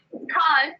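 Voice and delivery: "Can't" with a long broad ah; British can't. Shown as a demonstration. Showing how England says "Can't", broad ah. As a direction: say "Can't" as kahnt. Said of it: "Can't in England".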